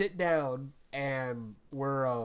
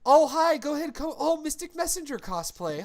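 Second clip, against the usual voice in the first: high, loud bubbly welcome voice, much higher and louder; May greeting fans; 12 semitones higher, 5 dB louder than usual. Retold or imitated. Imitating cohost welcoming panel guests, high loud gushing. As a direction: gush hello like an excited host greeting guests. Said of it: "And then it's like".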